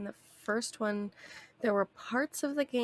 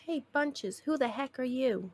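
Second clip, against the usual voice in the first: lightly voiced Bunches; 4 semitones higher than usual. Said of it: "I'm not gonna use that accent".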